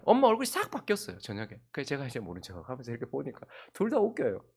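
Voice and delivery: usual speaking voice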